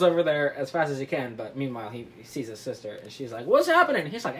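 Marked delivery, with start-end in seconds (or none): 3.5-4.1 high-pitched mock female voice; high, swooping acted query; sister's alarmed question. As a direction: squeal the question. Sister's question in retold scene.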